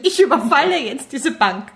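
mildly firm robbery announcement; a touch of mock determination; resolute. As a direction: declare it as a decided robber. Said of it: "Man muss entschlossen wirken".

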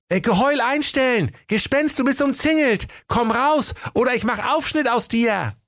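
high, bold challenging call; brave knight voice. Acted. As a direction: play a tiny knight acting tough.

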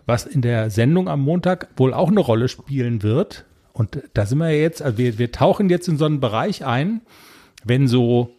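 half-numb face after anesthesia; numb from the dentist. Real, not acted. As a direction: talk through a numb mouth. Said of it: "Du hörst dich noch so ein bisschen komisch an".

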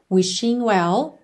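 "Wishing" ending in a nasal with no hard g; silent G. Shown as a demonstration. Teacher demonstrates for learners, silent final G. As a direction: say "Wishing well" as "wishin' well", slowly. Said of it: "o G de wishing não é pronunciado".

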